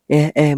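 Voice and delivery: whimpering eh eh like an innocent child, half-faked; fake crying sobs. Girl fakes sobs to get the aunt to scold her son. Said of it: "বলে আরো জোরে জোরে কাঁদছে".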